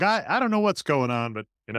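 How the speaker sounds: high, loud mock Boston voice; hammy Boston accent, playing confused. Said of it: "someone from Boston, that accent".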